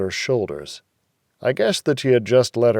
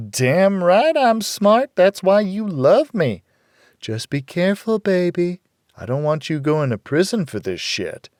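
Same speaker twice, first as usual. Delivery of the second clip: sinister whispers; 9 semitones higher, 3 dB louder than usual. A narrator's reading. Man on the phone warning his girlfriend, sinister. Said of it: "he responded in sinister whispers".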